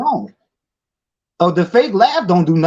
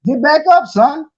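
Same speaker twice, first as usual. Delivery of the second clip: taunting coach shout; 3 semitones higher than usual. Real, not acted. Taunting rising ringside voice.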